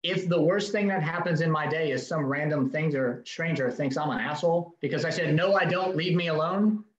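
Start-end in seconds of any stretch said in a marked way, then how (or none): 5.3-6.8 forceful refusal. Shown as a demonstration. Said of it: "In a very forceful, not rude".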